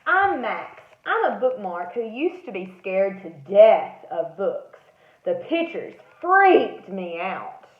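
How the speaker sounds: lively, bright bookmark character voice; Max the bookmark. Acted. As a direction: play a small nervous bookmark.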